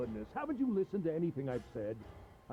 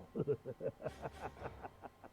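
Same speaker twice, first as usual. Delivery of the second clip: breathy evil chuckle; 3 semitones lower, 8 dB quieter than usual. Acted. Villain laughs in a breathy whisper.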